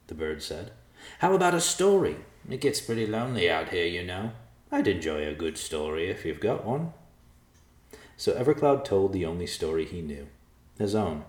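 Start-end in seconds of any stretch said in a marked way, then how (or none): 1.2-6.9 put-on lonely old vulture bargaining. Vulture character speaking.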